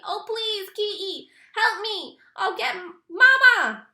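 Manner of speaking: high, loud sobbing beg; crying plea. A narrator's reading. Stuck brother sobs to Kenny for Mama, crying. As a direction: wail for help through tears.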